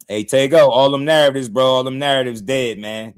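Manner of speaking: loud call to a chatter in the stream. Real, not acted. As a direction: raise your voice to call him out by name. Calling out to chatter Tego.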